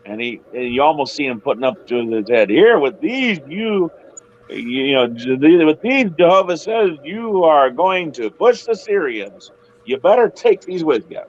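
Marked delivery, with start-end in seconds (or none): 2.5-11.2 raised, lively prophet offering horns; eager prophet voice. Retold or imitated. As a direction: hand over the horns with gusto. Prophet handing horns, voiced high.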